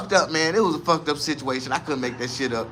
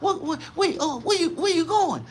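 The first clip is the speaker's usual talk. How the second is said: friendly cop; 10 semitones higher, 5 dB quieter than usual. Retold or imitated. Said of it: "police was all cool".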